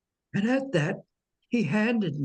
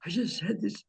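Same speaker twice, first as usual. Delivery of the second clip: distraught; 7 semitones higher than usual. Retold or imitated. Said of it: "really distraught".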